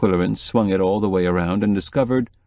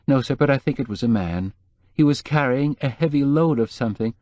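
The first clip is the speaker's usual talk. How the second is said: higher, anxious housekeeper voice; lightly voiced worried housekeeper; nervous housekeeper; 4 semitones higher than usual. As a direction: play the fretful housekeeper, pitched up.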